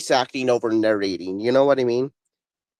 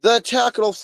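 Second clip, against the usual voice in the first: trailer voice; 7 semitones higher than usual. Shown as a demonstration. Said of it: "so I wanna hear you do".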